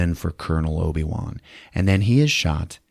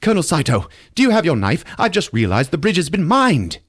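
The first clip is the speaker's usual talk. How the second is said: voicing the colonel; 9 semitones higher, faster than usual. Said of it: "he's like".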